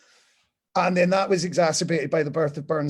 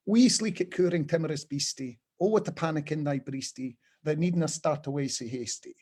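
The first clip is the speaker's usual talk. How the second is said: Scots recitation. Acted. Reading Burns's Scots poem to the audience in broad Scots. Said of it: "the opening lines are".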